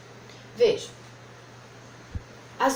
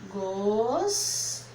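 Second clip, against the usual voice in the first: "Gostava" very slow, long gos, pause before tava; split after gos; much slower than usual. Shown as a demonstration. Teacher showing how she separated it, "Gostava" broken after a drawn-out gos. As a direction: hold the first syllable of "Gostava", then break. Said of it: "ela separou".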